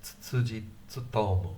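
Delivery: Tsutsuji Tsutomu with ts sounds; tongue twister. Shown as a demonstration. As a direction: model Tsutsuji Tsutomu again. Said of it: "Good tongue twister".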